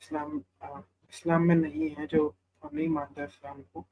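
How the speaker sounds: faint voice on a bad line; barely audible. Real, not acted. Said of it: "आपकी आवाज कम आ रही है".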